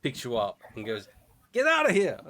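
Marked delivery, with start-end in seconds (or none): 1.5-2.2 sudden high, loud shout; commanding yell. Acted. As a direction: yell it as you hurl someone clear. May yells while launching player away.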